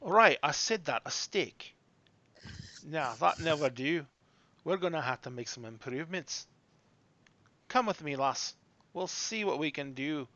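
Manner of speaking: a hint of a doubtful dwarf craftswoman; lightly voiced dwarf woman. Dwarf takes a poorly armed lass in hand, lightly voiced. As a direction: grumble mildly as a dwarf smith.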